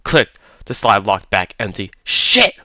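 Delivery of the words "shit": sharp, high yelp of panic; panicked curse. A narrator's reading. Holloway cursing his empty gun, high panicked yelp. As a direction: blurt it out as the gun runs dry.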